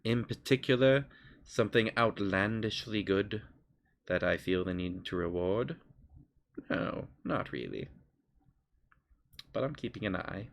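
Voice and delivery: soft, aloof patron with long pauses; measured and unimpressed, in no hurry; little voice. Acted. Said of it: "I love your voice for him immediately".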